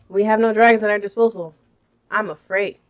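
amateur mock-British read, starting loud; American faking British, fairly brisk at first; bad British accent. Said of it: "I will do a bad British accent".

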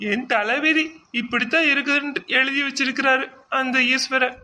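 high, whining self-pity over her fate; mock lament. Wife laments her fate to her husband, hammed-up whine. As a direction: bemoan your fate a little theatrically. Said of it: "எதுக்கு இப்படி அழுகுற?".

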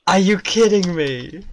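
loud exasperation. Real, not acted. Player cursing a mishap in the game, exasperated.

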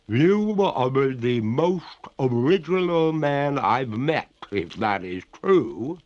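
high, slow, drawn-out ghost lady; water ghost. Acted. Ghost remarks on the master, high and slow. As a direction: draw it out high and loud, like a wailing spirit.

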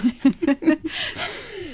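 high-pitched drawn-out laugh; amused laugh. Real, not acted. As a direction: burst out laughing at your own story. Laughs at her own story. (râs ascuțit, amuzat)

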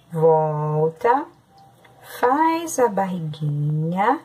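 calm, step-by-step teacher voice, each stroke its own phrase; teacher talking a class through writing P; handwriting guidance. Acted. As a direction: guide the children's pencil stroke by stroke. Guides writing lowercase letters.

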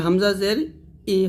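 হামজা জের ই ending on an "ee" sound, never "e"; correct zer vowel. Shown as a demonstration. Teacher warns learners against the e-vowel, pronouncing ই as "ee". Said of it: "একার উচ্চারণ করবে না".

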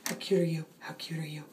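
low, softening coo; cooing to a pet. Real, not acted. Owner fussing over her cat on catnip, tender cooing.

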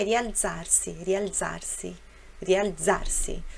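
"rialzarsi" slowly, with a crisp explosive Z. Shown as a demonstration. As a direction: stretch "rialzarsi" out, popping the Z. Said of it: "Também é explosivo".

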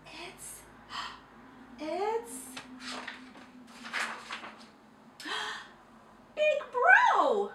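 gasping then very high loud shriek; breathless shriek. A narrator's reading. Mouse announcing Big Bro, gasping into a shriek. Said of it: "shrieked the mouse".

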